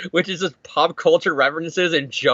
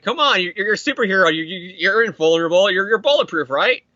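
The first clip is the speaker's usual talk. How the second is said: higher, mock-incredulous arguing; insistent retort; 4 semitones higher than usual. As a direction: keep pushing the point in a raised pitch. Crook argues with the hero.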